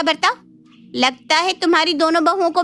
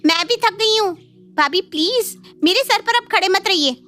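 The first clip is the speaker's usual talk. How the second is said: higher-pitched, weary complaint; irritated; 5 semitones higher than usual. Acted. Tired visiting daughter to her sister-in-law, irritated. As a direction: shoo her away with annoyance.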